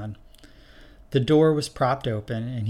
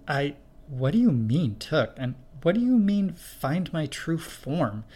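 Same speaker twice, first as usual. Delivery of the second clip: higher, halting, bewildered asking; confused questions; 5 semitones higher than usual. Acted. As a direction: stumble over each question.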